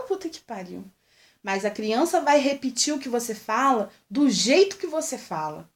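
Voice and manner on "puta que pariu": much softer, under the breath; her own soft version. Shown as a demonstration. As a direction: drop it low and quiet, like you barely say it. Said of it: "Eu falo".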